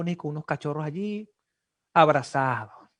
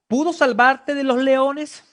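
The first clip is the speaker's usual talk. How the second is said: anxious cry; 7 semitones higher, 8 dB louder, slower than usual. Acted. Preacher voicing the king's plea.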